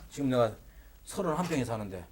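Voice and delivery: exaggerated believer's proclamation; mock declaration of faith. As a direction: proclaim it with hammed-up conviction, cut short. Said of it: "이게 신앙생활이라고 생각하지 마시라".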